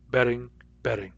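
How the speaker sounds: Betting and betting said with one identical tapped middle; same flapped sound. Shown as a demonstration. Teacher showing the West Coast merger to students. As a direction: say both words the same, fluently. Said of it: "pronounced identically".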